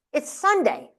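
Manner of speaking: lightly imitated baffled father; incredulous father. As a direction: say it as Dad stating the obvious. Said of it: "he would look at me like I was nuts".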